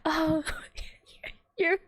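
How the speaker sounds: high, sugary talking-down tone; imitating a cloying game heroine; mock sweet condescending voice. To a friend, mocking the game girl's condescending sugary voice. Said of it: "she goes".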